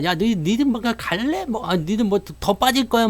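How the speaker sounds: mock menacing. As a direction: pressure them like a would-be intimidator. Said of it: "뭐 공포스럽게 얘기를 해봤자". (높은 톤으로 겁주는 시늉)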